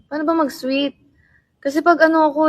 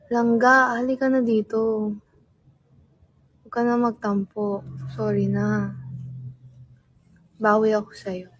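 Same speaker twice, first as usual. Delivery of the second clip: sweet coaxing; 2 semitones lower than usual. Shown as a demonstration. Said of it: "Gusto niyo tawagan ko kay ga".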